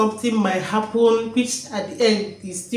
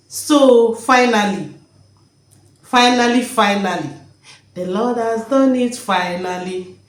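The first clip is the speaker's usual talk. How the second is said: joyful exclaiming; 4 dB louder than usual. Retold or imitated. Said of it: "Why am I now talking like this?".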